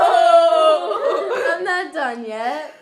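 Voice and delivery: laughing hard mid-word; breaking up with laughter. Real, not acted. Burping contest laughing fit.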